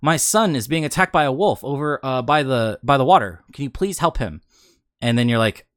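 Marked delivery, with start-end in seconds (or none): 0.0-4.4 mildly acted plea, starting high; pleading nobleman. Player retelling a nobleman's plea for his son, lightly acted. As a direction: lightly voice a nobleman asking for help.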